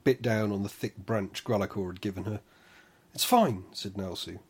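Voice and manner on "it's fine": gently soothing, lilting; calm her like a child; soothing, sing-song tone. Acted. Nalsu calming the labouring mother, soothing sing-song. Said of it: "in a soothing, sing-song tone".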